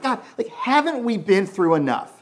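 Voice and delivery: distraught woman crying out to God; Mary's lament. Retold or imitated. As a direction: voice Mary's anguished plea to God. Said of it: "She's going like".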